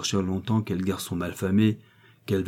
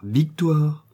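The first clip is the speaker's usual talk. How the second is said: louder, higher call of her name; sharp reproving call; 7 semitones higher, 4 dB louder than usual. A narrator's reading. Old husband checking his angry wife, sharp raised call. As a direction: pull her up short. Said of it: "en branlant la tête".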